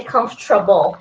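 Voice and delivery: comfortable as comf-tra-ble, with TR in the middle; disowned pronunciation. Shown as a demonstration. Streamer showing what they never say, comfortable as comf-tra-ble. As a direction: say comfortable squeezed into comf-truh-bull. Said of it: "I don't say comfortable".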